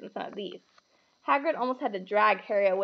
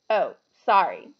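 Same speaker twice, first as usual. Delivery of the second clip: insincere sorry; 3 semitones lower, 7 dB louder than usual. A narrator's reading. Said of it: "not sounding sorry at all".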